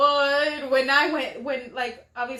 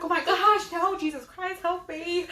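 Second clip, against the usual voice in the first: mock terrified prayer; 4 semitones higher than usual. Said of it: "I'm like".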